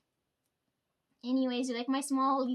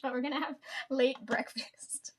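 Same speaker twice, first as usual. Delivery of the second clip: whisper. Acted. Playful aside about late breakfast.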